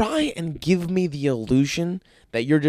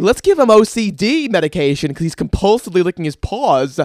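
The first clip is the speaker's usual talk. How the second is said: higher, louder, gushing New York Jewish lady voice; 6 semitones higher, 8 dB louder than usual. Retold or imitated. Mimicking the New York Jewish lady at the caddying round, gushing loudly in her accent. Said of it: "the most New York Jewish lady chimes in".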